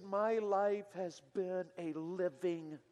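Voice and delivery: slow, hushed, bitter "My life has been a living,"; a young man's quiet bitterness, drawn out; bitter quiet quote. Retold or imitated. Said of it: "came out with such bitterness".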